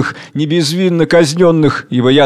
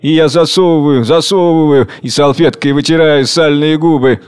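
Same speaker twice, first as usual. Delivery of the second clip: rising wrath, a touch louder; growing anger; 3 semitones higher, 3 dB louder than usual. Acted. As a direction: let the anger build into commands. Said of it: "Загорается гневом". (нарастающий гнев)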